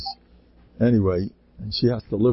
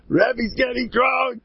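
put-on high-pitched excited children's cry; drawn-out, high gleeful shout; excited kids; 13 semitones higher, slower than usual. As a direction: mimic thrilled kids spreading big news. Kids cheering as rebbe gets drunk.

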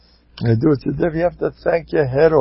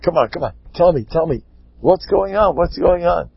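pestering, higher-pitched pleading; acted eager curiosity; 5 semitones higher than usual. Curious husband pressing the Rav, eagerly insistent. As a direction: badger him to spill it. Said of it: "now he's really curious".

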